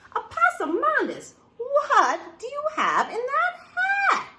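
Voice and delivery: put-on a mother calling out her child in alarm; scolding mama.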